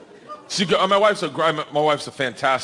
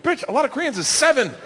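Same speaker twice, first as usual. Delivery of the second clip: mock exasperation; 10 semitones higher than usual. Arguing with wife.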